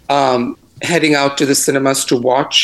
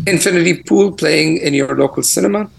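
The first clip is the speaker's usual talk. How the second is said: crunchy audio. Real, not acted. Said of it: "you sound a little crunchy today".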